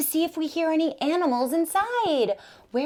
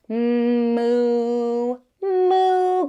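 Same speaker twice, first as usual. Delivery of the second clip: cow moo; 5 semitones lower than usual. Pretend. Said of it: "goes the cow".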